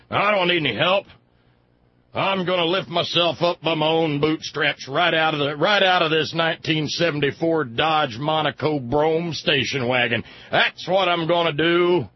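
loud hammed-up defiance; defiant dad. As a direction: bluster like a proud bootstraps dad. Dad voiced answering wife.

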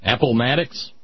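Appomattox read as "Appalmattox", with an extra l; mispronounced name. Shown as a demonstration. Host reading the newsreader's mispronunciation aloud, puzzled. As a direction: say Appomattox as "a-pal-MAT-ox", questioning rise. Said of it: "spell it the way it was pronounced".

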